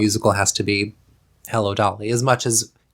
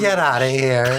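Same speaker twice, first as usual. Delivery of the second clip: laughing; 3 semitones higher than usual. Real, not acted. Laughing at co-host's joke.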